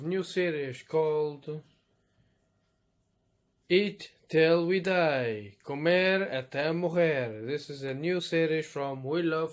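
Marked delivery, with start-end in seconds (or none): 3.7-7.5 drawn-out booming title announcement; hammed-up show slogan; slow loud title call. Announcing the show's catchphrase title.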